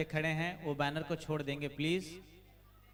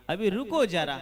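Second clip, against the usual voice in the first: excited; 3 semitones higher, 7 dB louder than usual. Acted. Waiting for the ball.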